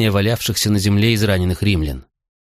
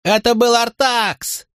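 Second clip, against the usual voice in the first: high slow frantic shout; panicked high shout of blame; shouting denial; slower than usual. A narrator's reading. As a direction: yell the counter-accusation. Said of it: "закричал Тинкоми".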